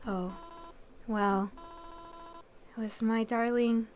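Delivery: a hint of a grieving old lady, slow at the end. Grieving mother tells the stranger who died, as a lightly voiced old lady. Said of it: "Old lady time".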